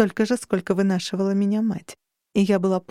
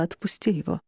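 softer, firm order repeated; hard command; 2 semitones lower, 5 dB quieter than usual. A narrator's reading. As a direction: say it hard and cold. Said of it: "Жёстко".

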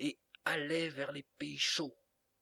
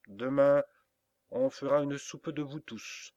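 threatening; 3 semitones higher, 6 dB louder than usual. Acted. Boy threatens the barnyard birds.

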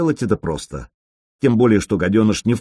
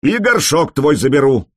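yelled from afar; 5 semitones higher, 4 dB louder than usual. Acted. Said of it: "издали заорал противник".

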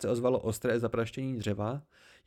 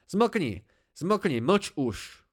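petulant outburst, first word higher; childish tantrum; 4 semitones higher, much slower than usual. A narrator's reading. Bast cutting off his master, in a childish tantrum. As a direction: snap like a child in a fit of rage. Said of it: "jako dítě v záchvatu vzteku".

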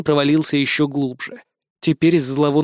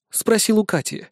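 ordinary delivery, nothing marked

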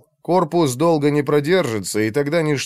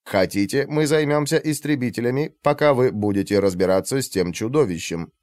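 synthesized voice. Acted. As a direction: read like a machine translator. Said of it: "ответил синтезированный голос".

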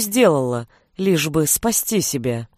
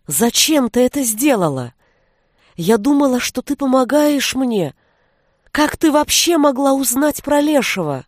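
rising from anguish to a higher cry; betrayed girl's climbing cry; voice breaking into a shout; 5 semitones higher than usual. A narrator's reading. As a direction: let the voice crack upward into a scream. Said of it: "Её голос сорвался на крик".

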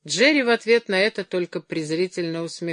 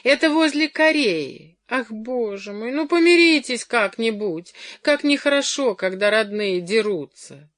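high, agitated pleading; distressed high-voiced appeal; urgent persuading; 5 semitones higher, 4 dB louder than usual. A narrator's reading. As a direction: coax them to make up, voice pitched up. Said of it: "уговаривала Джоан".

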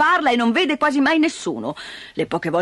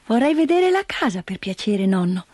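put-on raised, sweet child's request; polite little girl. Heidi asks grandfather to see the house, sweet child voice. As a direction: ask politely like a small child.

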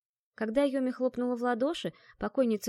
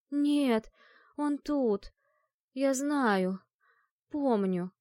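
uncertain mumble; 4 semitones higher, much slower than usual. A narrator's reading. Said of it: "Менее уверенно пробормотала жертва".

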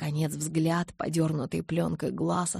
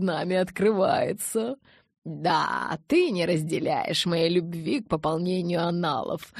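grand elder vampire; 3 dB louder than usual. Acted. Aro's grand speech.

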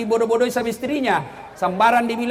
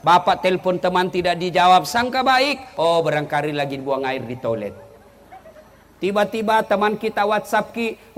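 ordinary talk

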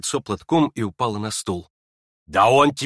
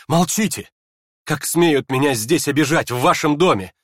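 high, loud hysterical rebuke; 4 semitones higher, 3 dB louder than usual. Acted. Aglaya to her mother, hysterical rebuke. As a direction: snap back out of control. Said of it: "в том истерическом состоянии".

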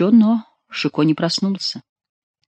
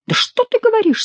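mock surprise. A narrator's reading. Chicot feigns surprise, mocking.

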